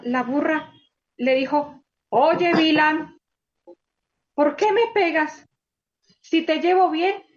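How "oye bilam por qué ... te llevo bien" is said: a touch of a complaining donkey, a bit louder. Acted. Donkey complains to Bilam for hitting her, mild reproach. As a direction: protest to Bilam, pleading. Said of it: "le reclamó la burra".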